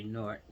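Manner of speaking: Newark run together like "Nork"; Jersey pronunciation. Shown as a demonstration. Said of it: "That's the way we know to say it".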